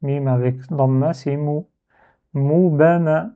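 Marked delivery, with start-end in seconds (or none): 2.3-3.3 "Moubama" slowly, each consonant single; no doubled consonant. Shown as a demonstration. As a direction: sound out "Moubama" without holding the m. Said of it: "il n'y a pas de shadda".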